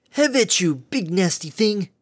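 high, then slow and loud challenge; hammy battle cry. Acted. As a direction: challenge the monster, overblown and bold. Male pony attacks the monster.

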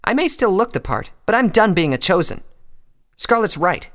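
high, loud, scornful challenge; Rainbow's scorn. A narrator's reading. Rainbow looking down on Applejack, loudly scornful. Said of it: "Her lips curled into a sneer".

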